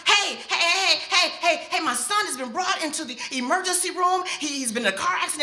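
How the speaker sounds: mother frantically calling the hospital; frantic. Retold or imitated. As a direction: rush the words in panic.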